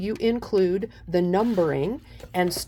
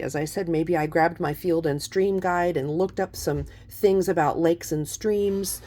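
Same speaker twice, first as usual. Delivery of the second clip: talking over a blender. Real, not acted. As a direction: blender whirring under the voice. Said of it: "Sorry about the blender in the background".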